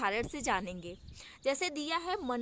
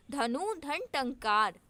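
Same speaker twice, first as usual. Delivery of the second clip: slow split reading; slower than usual. Shown as a demonstration. Teacher slowly splits धनु धन टंकार for students, deliberately. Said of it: "धनुष टंकार".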